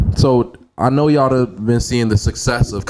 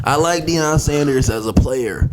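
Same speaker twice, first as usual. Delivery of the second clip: slow, drawn-out coworker quote; coworker impression; slower than usual. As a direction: drag out the coworker's words. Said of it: "the first thing he said".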